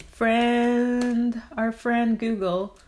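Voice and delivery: loud playful call to Google; playful address. Pretend. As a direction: hail a search engine like a pal.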